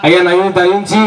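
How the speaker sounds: grovel to the man who caught the trick; pleading beggar. Acted. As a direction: caught beggar whining for mercy.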